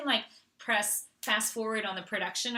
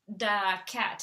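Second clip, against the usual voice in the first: THE said as "da", lightly imitated; Colombian-accented "the". Daughter reading as her Colombian teacher taught, lightly accented. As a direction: imitate a child saying "da cat". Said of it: "teacher from Colombia, and she'd be like".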